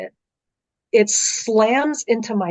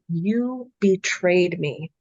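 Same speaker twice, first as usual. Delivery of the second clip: growly demon voice; much slower than usual. Retold or imitated. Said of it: "growly demon voice".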